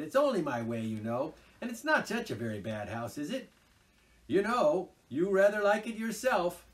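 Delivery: a hint of a pushy, eager Toad; coaxing Toad. A narrator's reading. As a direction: wheedle your friends into helping. Toad voiced in the story.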